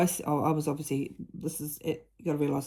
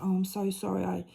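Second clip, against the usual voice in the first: sorry daughter; 4 semitones higher than usual. Retold or imitated. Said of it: "And she said".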